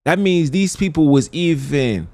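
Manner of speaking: appalled disbelief. Real, not acted. Appalled reaction to what was heard.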